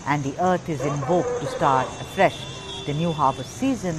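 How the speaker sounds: emphatic TV presenter's commentary; festival news voice-over. Real, not acted. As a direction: present it grandly, punching key names and phrases. Presenter narrates festival report over visuals.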